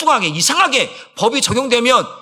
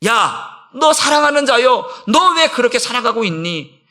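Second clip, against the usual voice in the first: a touch of a loving, gently calling voice, slower on the opening; tender divine voice; 3 semitones higher, 3 dB louder, slower than usual. Acted. Pastor voicing the Spirit gently calling a beloved child, mildly tender. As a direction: call out lovingly, a little higher and slower. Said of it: "성령께서 나에게 말씀하실 때".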